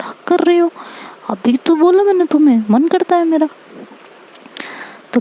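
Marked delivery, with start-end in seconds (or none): 0.0-3.5 a higher voice for the ex, light and carefree; higher girlish voice. Retold or imitated. Narrator voices her ex explaining the hug, higher. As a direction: lift the pitch, play the ex casually.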